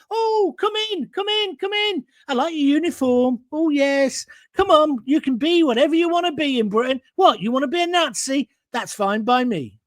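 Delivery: high, simpering welcome, arms wide; mock welcoming host. Ranting caller mocks Britain welcoming a Nazi, high and simpering. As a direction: gush like a naive host waving everyone in.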